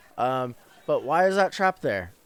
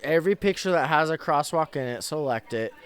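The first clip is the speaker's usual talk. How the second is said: fast, then fading into nervous mumbling; anxious captcha user; 2 semitones higher than usual. Pretend. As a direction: panic over which squares to pick.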